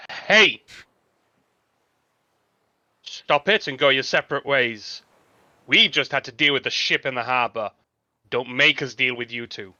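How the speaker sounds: huge "Hey!" then firm, brisk orders; commanding shout. Acted. Character shouts at brawlers to separate, commanding shout. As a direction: call out loudly to break up a fight. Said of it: "I am going to shout at them".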